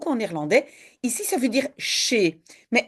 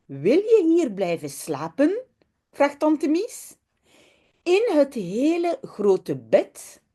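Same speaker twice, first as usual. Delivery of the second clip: lively storybook reading with voiced characters; reading to children; slower than usual. A narrator's reading. Teacher reading a Dutch children's story to the class, lively storybook voice. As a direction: read it like a bedtime story for kids.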